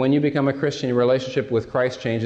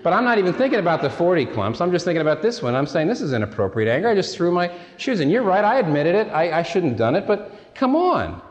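higher-pitched, protesting retold argument; mock self-defence; 5 semitones higher than usual. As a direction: act out a husband indignantly defending himself. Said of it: "I defend myself".

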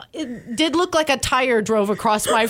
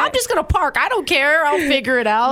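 carefree self-quote; 6 semitones higher, 3 dB louder than usual. Retold or imitated. Retells her careless younger self.

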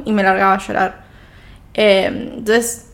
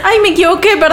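cita aguda entre risas; riendo; 8 semitones higher, 5 dB louder than usual. Real, not acted. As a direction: se le escapa la risa al citarlo. Cuenta el error del psicólogo. (contándolo muerta de risa)

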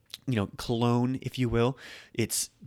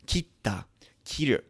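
whispered example; 5 semitones higher than usual. Shown as a demonstration.

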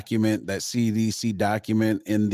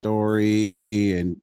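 call dropping out; much slower than usual. Real, not acted. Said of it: "I can hear every other word".

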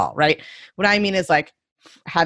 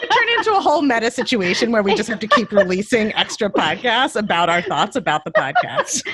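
amused laughing; 2 semitones higher than usual. Real, not acted. Joking about endless meta podcasts.

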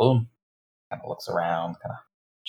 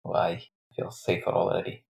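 sarcastic; 3 semitones lower, 3 dB quieter than usual. Acted. Sarcastic reply to rescuer.

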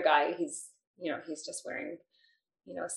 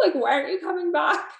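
put-on high, fast, louder pleading like a toddler; retold loud child plea; 10 semitones higher, 4 dB louder, faster than usual. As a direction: wail after mommy like a little kid left at school. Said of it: "like, the loudest".

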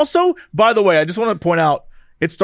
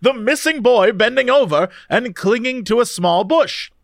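put-on old-timey announcer voice. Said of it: "give me your old-timey announcer voice and read me this article".

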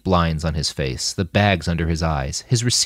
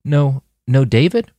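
squeak; 6 semitones higher, 5 dB louder than usual. A narrator's reading. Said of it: "She squeaked".

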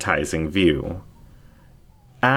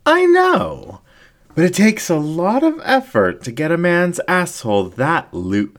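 much higher, louder gleeful fox voice; excited incubus ringmaster; 11 semitones higher, 4 dB louder than usual. Acted. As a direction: gush with delight, cut off mid-word. Ringmaster gloats.

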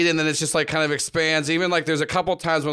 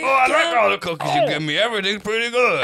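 high squeaky toy voice; squeaky rubbery little voice; 5 semitones higher, faster than usual. Acted. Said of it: "Vince's voice".

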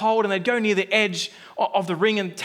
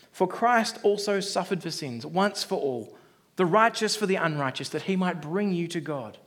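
scripture reading. Acted. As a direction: read the verse with weight. Scripture read aloud.

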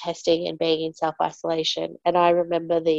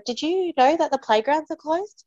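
pointed; 9 semitones higher than usual. Retold or imitated. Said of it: "I said to her".

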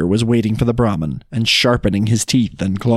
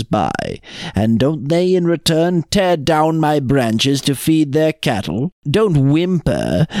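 slow, drawn-out scolding; lightly acted reproach, measured pace; lightly voiced stern tree; 2 semitones higher, slower than usual. Tree rebukes the Brahmin for complaining, stern and slow.

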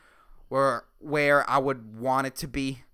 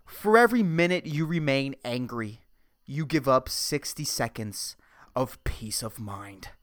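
measured quote reading, slowing on the second half; inspirational quote reading. Shown as a demonstration. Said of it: "the inspirational quote of the week is".

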